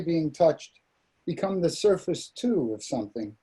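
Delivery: measured recital, pausing after each short phrase; poetry reading. Acted. Poet reads The Divers to listeners, measured poem recital. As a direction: read it as verse, phrases falling away.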